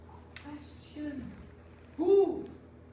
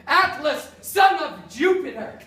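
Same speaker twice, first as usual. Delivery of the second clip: mock invocation; 8 dB louder than usual.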